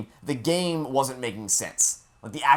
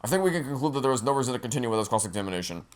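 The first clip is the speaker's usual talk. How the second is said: ordinary talk, nothing marked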